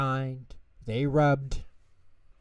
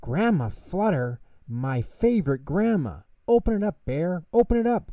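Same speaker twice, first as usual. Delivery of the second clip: excited little mouse, higher; eager squeal of a cry, pitched up; 7 semitones higher, 3 dB louder than usual. A narrator's reading. Tutter begs Bear to open Grandma's letter, excited cry. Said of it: "cried Tutter, jumping up and down".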